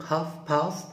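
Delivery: Half with no L sound, haf; half بدون نطق اللام; silent l. Shown as a demonstration. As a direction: drop the L in Half.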